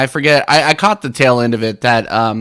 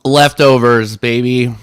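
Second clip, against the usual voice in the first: excited; 4 dB louder, slower than usual. Real, not acted. Proud about dinner.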